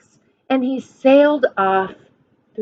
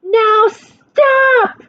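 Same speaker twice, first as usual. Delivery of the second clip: much higher, louder shout; commanding Max; 12 semitones higher, 5 dB louder than usual. Acted. Max ordering the wild things to stop, shouting. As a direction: halt them like a stern king. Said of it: "said Max".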